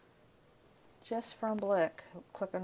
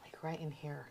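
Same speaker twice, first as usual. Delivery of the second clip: soft unvoiced whisper; 2 semitones lower, 8 dB quieter than usual. Real, not acted. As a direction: whisper it close, just to her partner. Quiet aside while painting.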